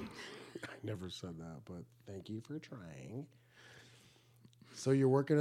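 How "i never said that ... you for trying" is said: deadpan. Real, not acted. Dry comeback to stripper joke.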